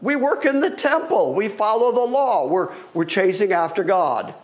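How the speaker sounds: a lightly voiced, high, defensive protest; indignant leaders. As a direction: play the offended temple leaders, mildly hammed-up. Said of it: "they go".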